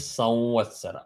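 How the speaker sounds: "Samvatsara" as sau-vatsara, nasal glide into the va; nasalised anuswara. Shown as a demonstration. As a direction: glide nasally from "Sam" into "vatsara", lips not closing. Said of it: "after the Anuswara, you have the Va".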